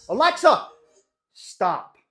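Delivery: loud call across the room. Real, not acted. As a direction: shout the name to get heard. Calling out to smart speaker.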